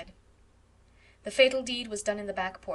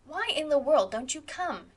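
higher, louder impatient call; impatient, raised demand; 7 semitones higher, 6 dB louder than usual. Acted. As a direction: call them out from the doorway. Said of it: "demanded Stella".

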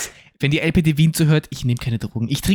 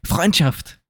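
loud party salute. Pretend. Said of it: "hat ganz laut Freundschaft gesagt".

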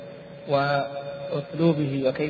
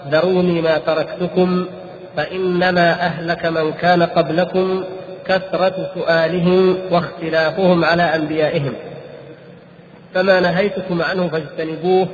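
raised voice; 5 dB louder than usual. Retold or imitated. Quoting the Prophet's hadith.

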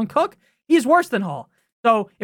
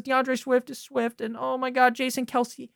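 mock broadcaster gush; 6 dB quieter than usual. Mocking broadcasters' excitement.

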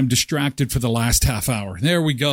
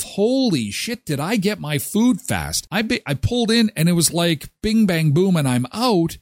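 amazed customer; 4 semitones higher than usual. Retold or imitated. Customer at the AI drive-through, mildly amazed. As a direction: marvel at the fast food. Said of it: "you're gonna say to yourself".

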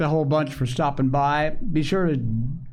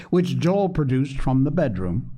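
plain reading voice

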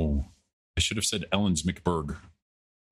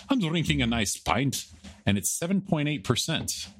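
higher-pitched mock Scottish accent; accidental Scottish accent; 5 semitones higher than usual. Bragging about his pint of strong ale, mock Scottish accent. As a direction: slip from fake Irish into a Scottish brogue. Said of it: "That was Scottish".

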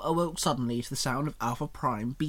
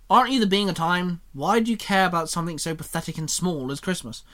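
mocking, louder sneer; sarcastic; 3 semitones higher, 5 dB louder than usual. William sneering at Xenon about Christmas, sarcastic. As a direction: scoff at her holiday. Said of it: "William said sarcastically".

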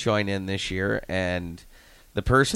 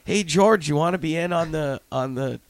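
higher, lively mock invitation; imitating eager players; 7 semitones higher than usual. Coach imitating players asking George into Secret Santa, eager high voice. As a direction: pitch it up like a player calling out.

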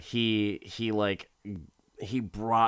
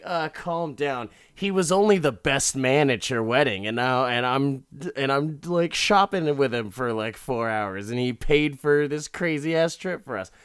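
higher, louder sarcastic wife impression; mock exasperation; 4 semitones higher, 4 dB louder than usual. Wife defends trip with friend to husband, mock exasperation. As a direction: push it out as an indignant, overplayed defence.

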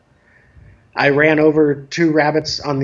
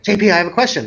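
lightly voiced child, raised pitch; retold child's question; 4 semitones higher, much faster than usual. Young boy cutting into adults' serious conversation, lightly imitated child voice. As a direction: imitate a kid interrupting with a question. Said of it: "he goes".

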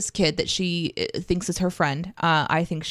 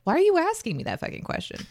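defiant comeback; 11 semitones higher than usual. Pretend. Defiant quote, pitch jump.

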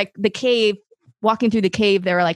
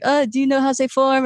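higher, put-on French accent; 4 semitones higher than usual. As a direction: imitate a French cave guide asking. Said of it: "has a French accent".

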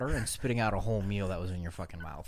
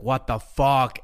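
mock mad swearing; 3 semitones higher, 6 dB louder, much slower than usual. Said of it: "like, really mad".

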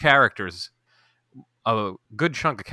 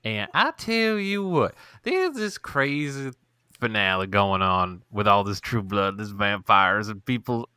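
hammed-up Louisiana Southern drawl; slower than usual. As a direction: stretch it out in a mock Louisiana accent. Podcast intro in mock Louisiana drawl.

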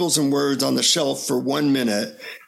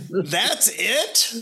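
higher, rising disbelieving question; mock-incredulous, pitched up at the end; retold incredulity; 4 semitones higher than usual. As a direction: imitate being let down by the answer. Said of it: "I say".

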